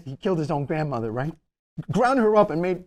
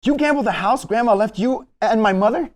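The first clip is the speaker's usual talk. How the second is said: shocked outburst; 2 semitones higher, 4 dB louder than usual. Acted. Nephew shocked by uncle's confession.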